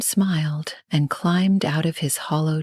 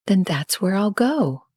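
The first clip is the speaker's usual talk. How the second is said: brave; 4 semitones higher than usual. Acted. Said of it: "Luna said bravely".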